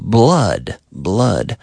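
"blood" with short "uh", repeated; double O as uh. Shown as a demonstration. Teacher shows double O possibilities, short "uh" in "blood". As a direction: say "blood" twice, vowel as in mud. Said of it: "different pronunciation possibilities".

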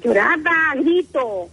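LLORABA pitched high and stretched, then GRITO; emphatic insistence. Real, not acted. Caller confirms to host she cried in the street, emphatic insistence.

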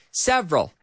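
SEVERAL as SEV-rul; two-syllable pronunciation. Shown as a demonstration. Teacher introducing another word, two syllables. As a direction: say several without its middle vowel. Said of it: "Another one".

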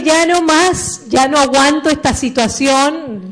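slow, pleading, a touch of anger as she relives it; retold angry crying plea. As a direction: drag out "ya no aguanto" as if at the end of her rope. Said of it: "Tan enojada, llorando y gritando". (súplica lenta y algo enojada, recordando el llanto)

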